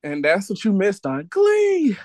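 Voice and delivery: a hint of TV announcer, voice lifted; TV recap announcer. Quoting a TV show's recap tagline.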